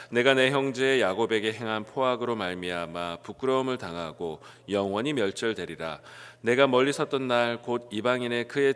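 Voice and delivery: steady, projected Bible reading; scripture reading. Acted. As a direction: read the verses out for everyone to follow. Reads scripture aloud to congregation.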